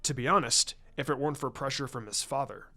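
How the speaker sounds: a hint of a laid-back strategist; easygoing, thinking aloud; lightly voiced Shikaku. Shikaku offering help to Hiashi, lightly voiced and casual.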